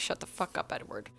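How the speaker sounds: voiceless, soft aside of annoyance; whispered exasperation. Acted. Reader reacting to Edward, exasperated whisper. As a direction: whisper it, fed up.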